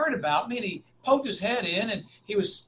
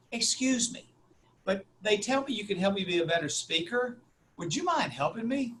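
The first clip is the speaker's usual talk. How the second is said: sweet little voice; 3 semitones higher, 3 dB quieter than usual. Retold or imitated. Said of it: "the nicest little voice".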